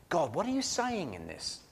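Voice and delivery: soft, wondering question to God; hushed wonder. Acted. Bible reader struck by a verse, hushed wonder. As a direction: ask it softly, as a private thought.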